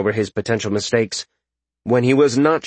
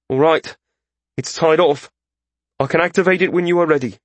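put-on higher-pitched young-mage figure, businesslike; mage character; 6 semitones higher, faster than usual. A narrator's reading. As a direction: voice the mage reporting that he is ready.

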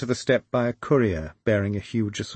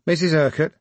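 put-on London accent, loud, announcing; thick London accent; 6 semitones higher, 3 dB louder than usual. A narrator's reading. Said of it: "he announced in a thick London accent".

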